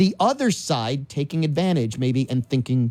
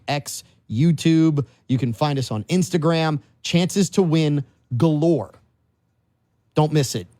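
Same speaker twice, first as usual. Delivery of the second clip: lively promo voice, hyping the steakhouse; ad read. Acted. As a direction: pitch the casino dinner to listeners. Sponsor ad read.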